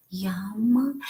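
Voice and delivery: breathy whispered yum. Real, not acted. Telling viewers about homemade caramel corn, whispered. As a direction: savor it in a whisper.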